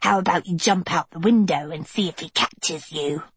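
sneering albino girl, mocking; sour albino girl.

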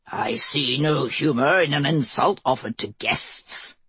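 low snarl, held in anger. Acted. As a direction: snarl it at the queen. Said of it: "the Holy Father snarled".

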